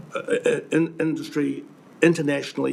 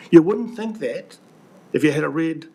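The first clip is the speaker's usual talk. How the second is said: pointed sarcasm; 3 semitones higher, 5 dB louder than usual. Real, not acted. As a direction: lean on it, let the sarcasm land. Pointed jab at the Regional Council.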